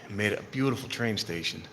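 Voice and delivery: winded, breathing hard between words. Real, not acted. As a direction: talk while catching your breath. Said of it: "I'm out of breath".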